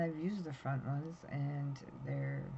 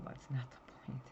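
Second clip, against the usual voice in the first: whispered aside; 2 semitones lower, 6 dB quieter than usual. Real, not acted. Aside while retelling the panic.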